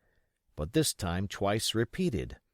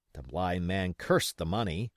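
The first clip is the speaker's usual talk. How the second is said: ordinary delivery, nothing marked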